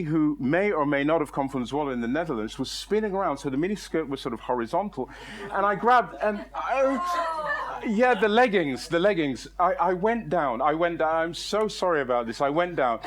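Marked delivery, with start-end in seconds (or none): 6.2-7.8 high drawn-out cry while falling; mock falling yell. Man grabbing at leggings as he falls, mock high wail. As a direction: let out a long, high comic wail.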